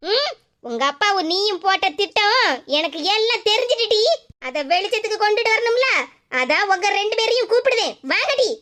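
a stern mother catching the two of them out; scolding mother. Acted. Mother reveals she knows the plan.

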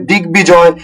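দিক বিজয় said "dig-bijoy", b fully sounded; দিক বিজয় as one word with a full b; unchanged b. Shown as a demonstration. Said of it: "অবিকৃত".

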